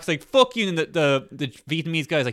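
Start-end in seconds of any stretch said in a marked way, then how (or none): 0.2-0.7 high, loud mock outburst; retold angry scream. Retelling man swinging at chicken seller, mock angry yell. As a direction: imitate a man snapping, pitched way up. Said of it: "they're s-, both screaming".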